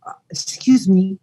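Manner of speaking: whispered Australian "Uh, excuse me"; an Australian stranger breathing "excuse me" without voice; retold Australian accent, whispered. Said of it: "speaking in an Australian accent".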